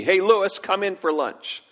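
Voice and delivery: loud high call up the stairs; mother calling her son in. Retold or imitated.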